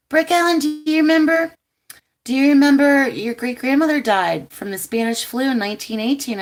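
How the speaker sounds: high, loud insistent auntie; imitating her auntie. Auntie reminds her niece of great-grandmother, high and loud. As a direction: call her name and press the question like an old aunt.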